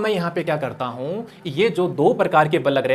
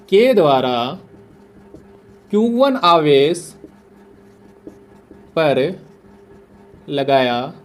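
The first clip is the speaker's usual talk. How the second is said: slow dictation; much slower than usual. Shown as a demonstration. Teacher dictating the definition to the class, slow and spaced. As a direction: dictate slowly so students can write it down. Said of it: "लिख देता हूँ मैं यहाँ पे".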